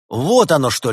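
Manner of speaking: loud, high jubilant cry; gleeful exclamation. A narrator's reading. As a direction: crow with delight. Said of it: "ликующе воскликнул делец".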